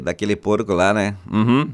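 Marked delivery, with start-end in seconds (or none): none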